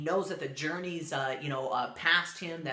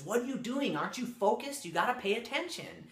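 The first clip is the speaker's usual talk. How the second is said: higher-pitched mock reprimand; retold scolding; 6 semitones higher than usual. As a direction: lightly act a master chiding his student. Master scolds student who slipped.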